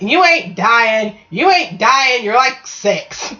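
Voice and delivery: slow, firm imitated grandma; no-nonsense. Farmer's wife grandma to her frightened six-year-old grandson, no-nonsense. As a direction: dismiss it with drawn-out, emphatic words. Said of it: "She was a no-nonsense farmer's wife".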